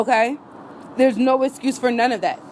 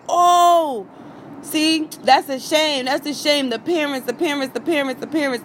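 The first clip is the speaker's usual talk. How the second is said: mock fake sympathy; 3 semitones higher than usual. Mocking bystanders who walked past, fake pity. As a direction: mimic gossipy fake concern. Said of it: "talk like".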